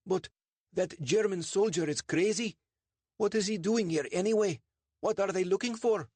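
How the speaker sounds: high, rattled questions; agitated Sandeep. Acted. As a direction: let the worry spill out in a high voice. Sandeep alarmed after the search.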